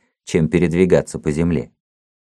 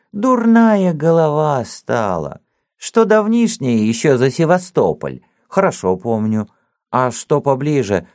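put-on old man voice; 2 semitones higher than usual. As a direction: talk like a toothless old servant.

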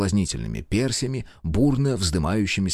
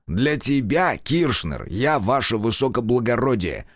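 barking; 4 semitones higher, slower than usual. Acted. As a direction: stress on я, ваше высокоблагородие as a stern correction. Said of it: "рявкнул сыщик".

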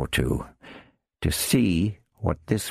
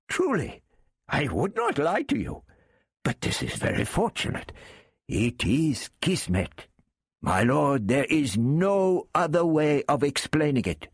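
much higher, wheedling Arab character; Arab thief voice; 10 semitones higher than usual. Acted. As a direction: lift the voice high for the sly Arab.

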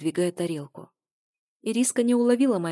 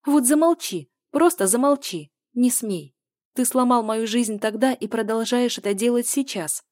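much higher and louder, cutting him off; furious shout; 5 semitones higher, 6 dB louder than usual. A narrator's reading. Woman cuts off her ex mid-call, furious, higher and louder. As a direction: slam him silent.

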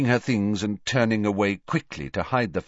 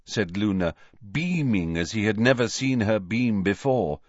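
usual speaking voice

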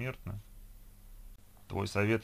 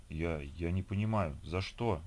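slow, faltering stammer; babbling, bewildered; 2 semitones lower, slower than usual. Acted. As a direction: stumble over the words in confusion. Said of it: "лепетал Вершинин".

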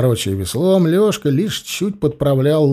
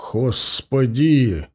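slow, sighing mock despair; husband sighing at his wife's scolding, slow and mock-weary; much slower than usual. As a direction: draw out a weary sigh. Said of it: "вздохнул Алексей".

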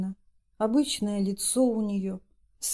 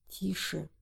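softer, hushed warning; whispered hush; 10 dB quieter than usual. Acted. Yana hushing Masha by the bed, much softer. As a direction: hush her under your breath. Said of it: "прошептала Яна".

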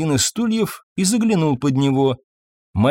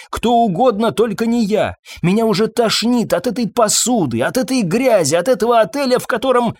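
high, rising rant, sick of it all; fed-up outburst; 9 semitones higher than usual. Acted. Waitress venting to Fabien about the hotel, fed-up and high. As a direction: spit out her disgust at the job.

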